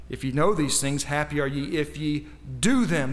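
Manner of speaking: verse read with weight on "if" and "do"; stress on IF and DO. Shown as a demonstration. Preacher showing where the verse's emphasis falls, stressed IF and DO. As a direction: lean on "if", then punch "do" in "do them". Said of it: "The emphasis on the word if".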